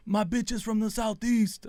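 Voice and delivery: mock scream, high and drawn out; retold scream. Recalling own party yelling for friends, mock scream. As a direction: imitate a scream without full volume. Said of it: "my girl said I was screaming".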